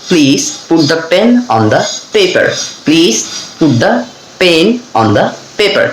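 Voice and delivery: deliberate practice phrase, aspirate "pen" and "paper"; aspirated P drill. Shown as a demonstration. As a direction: puff of air on each p in "Please", "put", "pen", "paper". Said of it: "ফি উচ্চারণটা practice করি". ("pen", "paper"-এ প-এর বদলে ফ উচ্চারণ)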